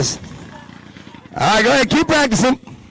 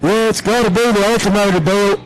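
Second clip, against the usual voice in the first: lightly put-on drunk accent; a hint of a beer-drinking bro; Boomhauer. Drinking buddy to his bro, mock drunk accent. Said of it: "It's like Boomhauer or something".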